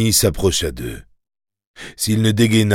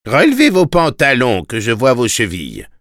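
steady sheriff drawl; 4 semitones higher than usual. Acted. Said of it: "ordonna le shérif".

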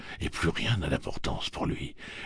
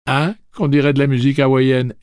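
dazed wonder; 9 semitones higher, 13 dB louder than usual. Acted. Dazed remark while falling.

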